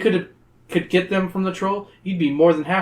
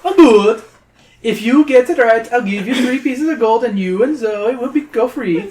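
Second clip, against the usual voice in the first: high, louder gloating troll; greedy troll; 7 semitones higher, 4 dB louder than usual. Acted. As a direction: gloat over the prize as the troll.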